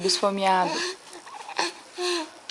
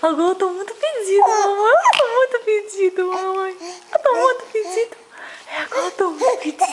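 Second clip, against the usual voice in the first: put-on baby voice; 2 semitones higher than usual. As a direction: voice the baby with giggles. Mother voicing baby, laughing.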